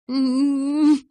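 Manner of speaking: high trembling hum; shivering whimpered protest. A narrator's reading. Bella tries to object, only a shaky moan. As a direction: whimper a protest through chattering teeth. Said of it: "попыталась возразить я".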